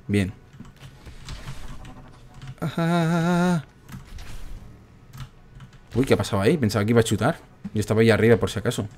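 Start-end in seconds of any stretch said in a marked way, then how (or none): 2.6-3.6 high, held "aaah"; drawn-out "ah". Real, not acted. Player voicing the tension mid-game, long high "aaah". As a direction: hold one long high note. Drawn-out vocal noise during play.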